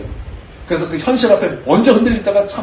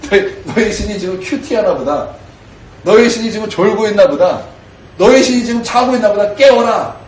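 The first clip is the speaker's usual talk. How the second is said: mocking taunt; 3 semitones higher than usual. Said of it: "그런 비웃음이 있지 않습니까".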